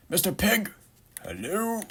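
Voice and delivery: high-pitched, playful greeting; playful calling out. Pretend. Calls out to a game pig.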